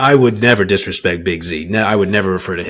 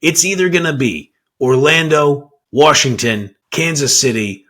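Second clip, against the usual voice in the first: bad acting; 3 semitones higher than usual. Shown as a demonstration. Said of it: "I'm gonna deliver it like it's extremely spicy".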